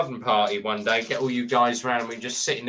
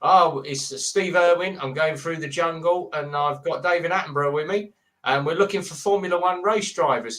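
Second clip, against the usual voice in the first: mock Australian accent; 2 semitones higher than usual. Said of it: "people doing the accent".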